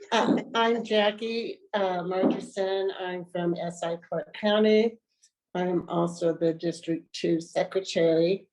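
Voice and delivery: talking through a head cold; nose blocked with a cold; stuffy nose. Real, not acted. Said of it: "suffering from a cold".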